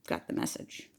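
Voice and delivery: soft whispered aside. Real, not acted. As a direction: breathe it as a secret. Whispered punchline.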